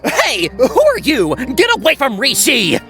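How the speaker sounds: indignant, exclaimed demand; alarmed challenge. Acted. Prince ordering a stranger away from Rishi, indignant. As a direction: warn the stranger off.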